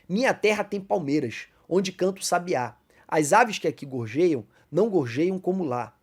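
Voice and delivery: measured, declaiming reading of the verses; poem recitation. Shown as a demonstration. Teacher reciting a poem to the brethren, declaiming.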